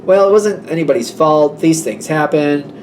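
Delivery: mildly mocking brush-off; flippant. The one who lost a house, making light of it, flippant. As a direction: imitate someone glibly waving it away. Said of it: "like, very flippant".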